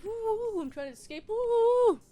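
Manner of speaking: high, playful woo-hoo yelps of a fleeing prankster; mock excited whoops. Vlogger voicing Loki running around the office, playful high whoops. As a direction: whoop it up like a cartoon escapee.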